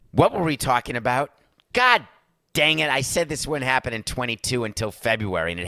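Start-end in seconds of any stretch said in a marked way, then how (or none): 1.7-2.9 loud, high cry of frustration; exasperated outburst. Real, not acted. Host annoyed at his own tangent, exasperated yell. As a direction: let the frustration burst out.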